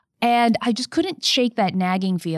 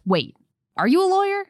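high, startled mock-disbelief as the caller; a caller's sceptical squeak of surprise; incredulous interruption; 13 semitones higher than usual. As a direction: play the caller, suddenly doubtful she's a lawyer. Caller cuts her off, doubting.

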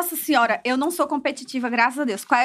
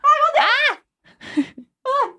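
playful panic; 12 semitones higher than usual. Real, not acted. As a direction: squeal in a sudden game panic. Panics as timed round starts. (gritinho agudo de desespero no jogo)

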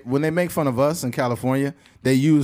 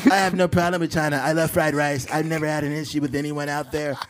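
emphatic presidential parody; Donald Trump. Acted. President insisting he likes China, Trump impression. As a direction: insist in short, even bursts. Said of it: "Donald Trump s-, talks in, like, bullet points".

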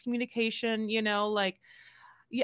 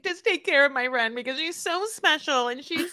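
higher-pitched imitation of a gushing friend; gushing plea; 5 semitones higher than usual. Host quoting friend asking care for Dempsey, gushing plea.

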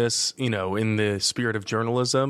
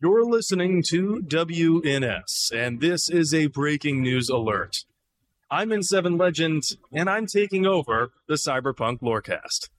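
news anchor; 5 semitones higher than usual. Pretend. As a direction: announce it like breaking news. Mock breaking news announcement.

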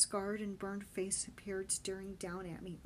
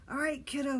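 loud firm call; 7 semitones higher, 8 dB louder than usual. Acted. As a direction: call down to him. Benny calls to boy below.

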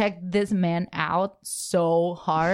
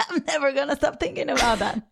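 laughing confession; 4 semitones higher than usual. Retold or imitated. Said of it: "we were all like".

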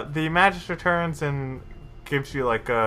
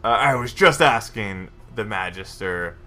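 lightly voiced Justicar; 6 semitones lower than usual. The Justicar greeting the party, lightly voiced lower. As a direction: drop a little lower for the stern Justicar.

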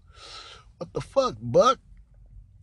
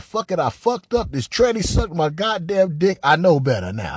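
mock confession; 4 semitones higher, 6 dB louder than usual. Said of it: "should have just said".

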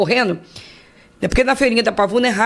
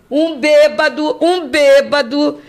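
bêbado drawn out slow and higher; slow emphasis; 4 semitones higher, 3 dB louder, much slower than usual. Real, not acted. Telling the host God used a drunk, slow emphasis. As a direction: lean on "um bêbado" slowly, in amazement.

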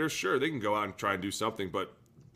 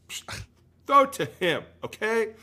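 loud and high, throw it to him in disbelief; exasperated shout; 11 semitones higher, 7 dB louder than usual. Retold or imitated. Ranting about the coach, an exasperated shout. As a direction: bark it out like a fed-up fan.

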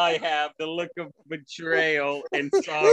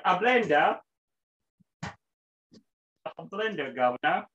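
a hammed-up British accent, drawn out slowly; imitating his friend as a stuffy Brit, British accent; mock British accent; slower than usual. Mocking co-host's word as a British accent. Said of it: "made he sound fucking British".

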